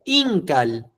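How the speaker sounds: "Incal" with "in" strong and "cal" light; stress on IN. Shown as a demonstration. Teacher modelling for Tere, stressing "in". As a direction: punch "in", soften "cal". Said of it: "Pronuncia fuerte en el in".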